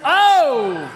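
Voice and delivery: sudden loud gasp of surprise; surprised exclamation. Real, not acted. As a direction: react with a sharp high "Oh!". Reacting to a tense game moment.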